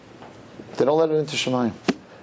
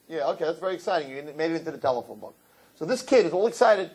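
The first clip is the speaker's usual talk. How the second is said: ordinary delivery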